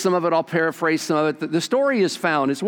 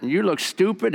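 higher mocking parrot voice; parrot insult; 6 semitones higher than usual. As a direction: sneer like a rude bird.

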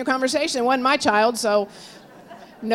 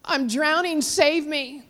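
higher-pitched retold plea; mildly acted drowning man's appeal; cry for help; 4 semitones higher than usual. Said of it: "It was a cry for help".

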